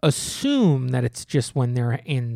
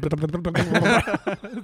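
purr imitation; 3 semitones higher than usual. Shown as a demonstration. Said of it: "How's mine?".

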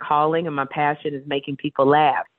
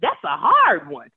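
mock helpless reply; 6 semitones higher than usual. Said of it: "I was like".

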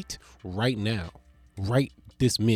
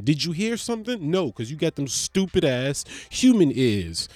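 dog's point of view; 4 dB louder than usual. Retold or imitated. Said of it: "She probably down there like".

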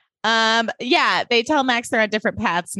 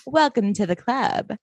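Rex voice. Retold or imitated. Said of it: "doing my Rex voice".

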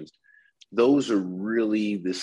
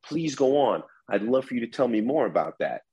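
Please go on said higher, with a rising tune; upward inflection; 4 semitones higher than usual. Shown as a demonstration. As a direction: lift the pitch on Please go on as an invitation. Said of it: "That's where the upward inflection comes into play".

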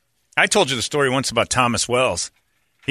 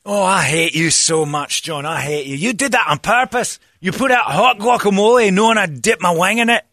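mock anguished friend; 9 semitones higher, 4 dB louder than usual. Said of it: "he voiced accusing".

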